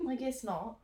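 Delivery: a slight, accidental British accent. Real, not acted. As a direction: let a touch of British slip in. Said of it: "Now you're British".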